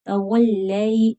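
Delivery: तवल्लै slow, lam doubled firmly; tajweed demo. Shown as a demonstration. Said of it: "लाम मुशद्दद है".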